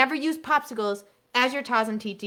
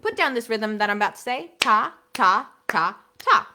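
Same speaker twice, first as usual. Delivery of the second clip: louder class instruction; teacher voice; 3 semitones higher, 6 dB louder than usual. Shown as a demonstration. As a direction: call the rhythm out to students. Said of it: "And if I say".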